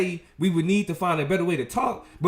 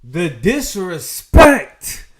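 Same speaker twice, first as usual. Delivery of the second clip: mock outrage; 6 dB louder, much slower than usual. Real, not acted. Reacting to the clip.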